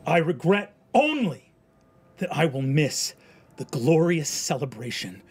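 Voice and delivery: a condemned man's proud last words; defiant speech. Acted. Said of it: "speaking to the crowd".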